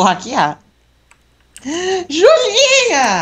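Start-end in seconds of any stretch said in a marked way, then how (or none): 2.1-3.2 high, slow drawn-out wail; wailing call. Acted. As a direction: wail her name across the map. (chamando alto e arrastado)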